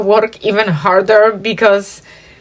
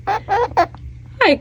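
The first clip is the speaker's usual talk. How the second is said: high laughing hi; 11 semitones higher, 6 dB quieter than usual. Real, not acted. Coaxing pet bird, laughing.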